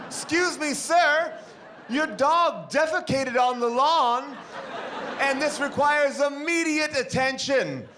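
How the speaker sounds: put-on high, slow, prim Downton Abbey accent. Wife confronts dog owner in a haughty Downton Abbey accent. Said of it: "a Downton Abbey accent".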